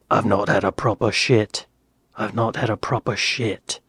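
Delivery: put-on low-key practice in a British accent. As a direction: repeat it as British accent drilling. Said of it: "an American doing a British accent".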